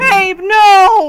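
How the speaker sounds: mock anguished cry, wailed high and loud.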